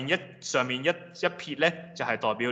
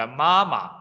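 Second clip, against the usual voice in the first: first 媽 of 媽媽 drawn out and louder; stressed beat; 5 dB louder than usual. Shown as a demonstration. Teacher showing the heavy beat, first 媽 stressed. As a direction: hit the first 媽 hard, let the second fall away. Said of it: "讀節拍就一個重啲".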